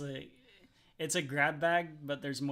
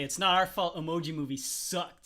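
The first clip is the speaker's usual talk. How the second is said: mock Disney voice; 4 semitones higher, 7 dB louder than usual. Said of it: "Disney's gonna say".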